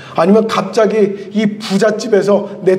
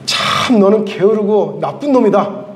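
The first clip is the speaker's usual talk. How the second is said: angry master's rant; 7 semitones higher than usual. Retold or imitated. The master berates the servant who buried the talent, high indignant scolding. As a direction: berate the servant, mock-outraged. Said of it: "이렇게 말씀하시는 거예요".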